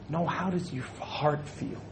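soft, lightly voiced caring wife; gently probing wife. Wife asking her husband about his heart, gently probing. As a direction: ask softly, as a concerned wife would.

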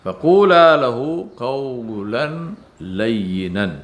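measured recitation of Arabic scripture; reciting scripture aloud; Quran recitation. Acted.

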